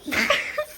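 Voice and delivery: short high giggle; high breathy laugh. Real, not acted. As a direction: let out a quick, mostly voiceless laugh. Laughing at the child.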